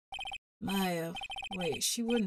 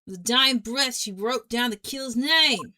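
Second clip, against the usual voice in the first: put-on New Jersey accent; 2 semitones higher, 5 dB louder than usual. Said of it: "Um, Jersey, New Jersey".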